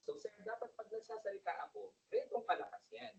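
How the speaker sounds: projecting to someone eight feet away; projected voice. Shown as a demonstration. Speaker shows a listener eight feet away how strong to talk, projected. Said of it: "So, dapat ganun pa rin yung boses nyo".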